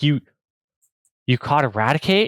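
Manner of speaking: amazed, star-struck, awestruck stammering disbelief. Retelling someone's reaction during a Pokemon giveaway, imitating someone in awe. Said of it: "absolutely in awe".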